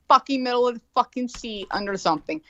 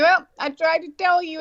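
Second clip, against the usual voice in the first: told-you-so; 8 semitones higher than usual. Retold or imitated. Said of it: "I'm like".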